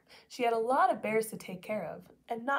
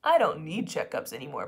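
bragging; 6 semitones lower, 6 dB louder than usual. Acted. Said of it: "bragged Papa".

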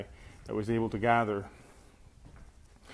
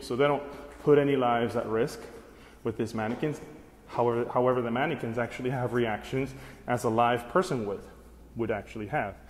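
winded after climbing stairs; out of breath; 3 dB louder than usual. Real, not acted. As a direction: talk between breaths. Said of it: "Again, catching my breath".

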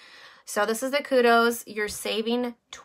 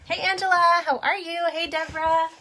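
put-on much higher, louder sing-song baby talk; high sing-song voice for a little one; 8 semitones higher, 4 dB louder than usual. Greeting viewers in baby voice.

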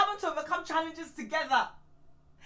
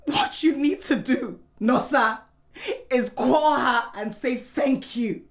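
firm, loud, lowered pitch; stern demand; 3 semitones lower, 4 dB louder than usual. Acted. Wife telling husband to accept help, stern. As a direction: lay down the order emphatically.

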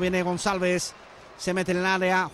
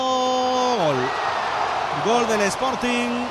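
goal call; much slower than usual. Real, not acted. Goal call in live commentary.

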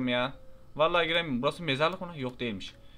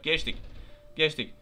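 ordinary talk, nothing marked

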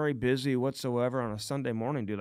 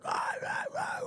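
mock angry yelling; 7 dB quieter, slower than usual. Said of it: "the guy in the driver's seat is like".

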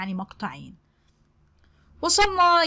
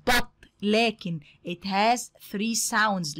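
slow teaching read; much slower than usual. Shown as a demonstration. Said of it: "teacher stretches English sentence".

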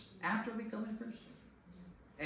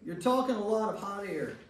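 mock angry friend; 4 semitones higher than usual. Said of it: "he says".

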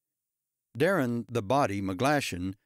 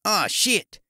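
Australian man yelling in sudden pain, much higher and louder; pained cry; 9 semitones higher, 6 dB louder than usual. A narrator's reading. Darren crying out as the recliner crushes his foot, loud pained yell. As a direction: howl it as the chair lands on his foot. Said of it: "he cried".

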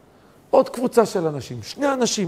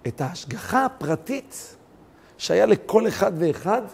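ordinary talk

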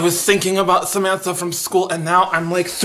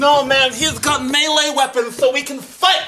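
lightly voiced little boy, pitched higher; little kid voice; 6 semitones higher than usual. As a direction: play an excited small kid. Kid voice again.

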